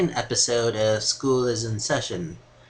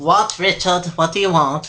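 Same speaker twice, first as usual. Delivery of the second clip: raised, impatient demand; fed-up, pitched-up question; exasperated; 4 semitones higher, 4 dB louder than usual. Acted. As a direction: answer a pest with strained patience. Host snaps at pestering guest.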